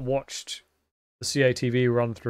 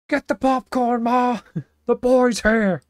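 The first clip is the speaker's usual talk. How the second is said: much higher, much louder gleeful little dog cry; a puppy bursting with excitement; excited Missile; 10 semitones higher, 9 dB louder, slower than usual. Acted. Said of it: "You enjoy my take on Missile?".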